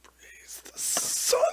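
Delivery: breathy, unvoiced, drawn-out strain; strained while stretching. Real, not acted. Player stretching at the table, slow strained whisper. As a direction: groan the words out through a big stretch. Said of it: "I had to stretch".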